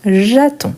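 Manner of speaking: j'attends with a nasal end and nothing after; silent final letters. Shown as a demonstration. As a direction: say j'attends as "ja-tan", no D, no S sounded. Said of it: "Et on dit j'attends".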